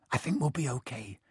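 soft, hushed murmur; whispering. A narrator's reading. Harry reassuring his friends behind the door, whispering. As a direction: say it softly so nobody outside hears. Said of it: "Harry whispered".

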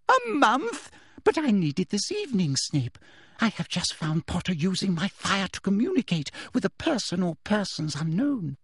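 high, indignant demand; outraged and insistent; squawking Umbridge. A narrator's reading. Umbridge demanding potion from Snape, high-pitched. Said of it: "squawked Umbridge".

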